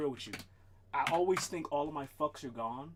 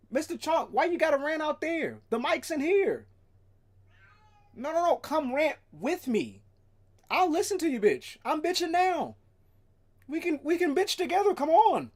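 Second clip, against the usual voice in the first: much higher, louder pet voice; 11 semitones higher, 8 dB louder than usual. Real, not acted. Calling the cat Mister Chomp over, high pet voice. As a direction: coo loudly at the cat.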